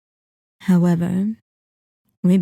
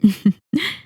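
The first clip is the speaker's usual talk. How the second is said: brief amused villain chuckle; short knowing chuckle. Acted. Vampire learning the charm is harmless, knowing chuckle. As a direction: chuckle lightly, pleased with the answer.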